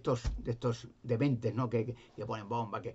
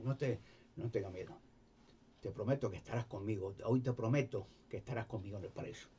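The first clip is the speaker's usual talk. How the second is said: gentle Jesus; 2 semitones lower, 6 dB quieter than usual. Retold or imitated. Jesus comforting the thief.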